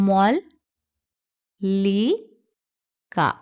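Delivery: মল, লি, কা, each set apart by long pauses; teacher splitting মল্লিকা into three syllables; syllables spelled out. Shown as a demonstration. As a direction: break মল্লিকা into মল, লি, কা. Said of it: "তাহলে আমরা পাবো".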